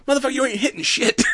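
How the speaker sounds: high, fast, laughing jeer; mock taunt. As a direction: tease him through a laugh. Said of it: "He's like".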